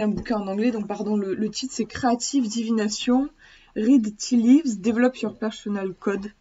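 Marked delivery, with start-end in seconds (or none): 1.9-6.3 English title in a thick French accent; bad French accent. Real, not acted. Vlogger reads an English book title to viewers, bad French accent. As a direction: read the English with French sounds. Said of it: "Désolée pour mon accent, j'ai un accent pourri".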